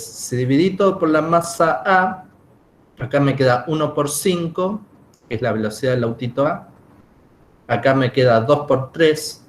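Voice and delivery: talking around a candy; chewing while talking. Real, not acted. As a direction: speak with candy in mouth. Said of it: "estoy comiendo un caramelo".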